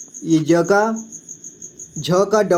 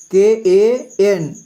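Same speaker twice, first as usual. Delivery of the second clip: slow spelling; much slower than usual. Shown as a demonstration. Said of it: "कंग का".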